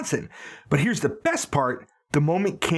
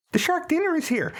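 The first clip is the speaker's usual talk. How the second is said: waiter voice; 13 semitones higher than usual. Acted. Retold scene, waiter voice.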